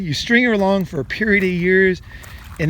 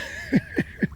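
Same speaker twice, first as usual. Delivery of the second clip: soft breathy chuckle; 9 dB quieter than usual. Real, not acted. Laughing at own playing.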